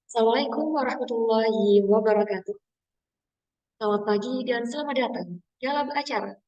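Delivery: emcee opening with a bit of lift; announcer-style welcome, lightly done; with intonation. Shown as a demonstration. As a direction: greet the audience like an MC. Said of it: "coba di sana dikasih sedikit intonasi".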